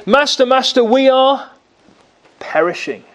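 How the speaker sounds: mild mock terror, shaking the sleeper awake; panicked plea. Disciples wake Jesus in storm.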